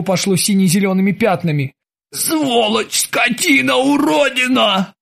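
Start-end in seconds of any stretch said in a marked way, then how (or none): 2.1-4.9 high, slow, rising insults; pained cursing. A narrator's reading. Winded Krueger curses the terminator. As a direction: spit each curse in pain.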